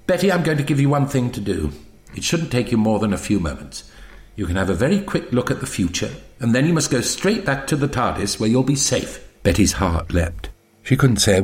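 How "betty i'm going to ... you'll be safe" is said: quick, soft-spoken little man; brisk Doctor. Acted. Doctor gives Betty one task, briskly instructing. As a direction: lay down the rules briskly.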